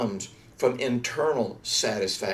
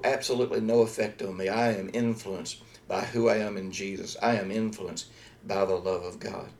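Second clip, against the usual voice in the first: hushed first-person prayer, softer and lower; sample prayer; 3 semitones lower, 3 dB quieter than usual. Shown as a demonstration. Pastor voicing a congregant's prayer, quietly. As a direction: model the prayer gently for them. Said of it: "So, so you're saying".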